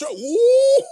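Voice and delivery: high, loud burst of laughter; real high laughing fit; cracking up. Real, not acted. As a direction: lose it laughing at the chat. Cracking up at the chat.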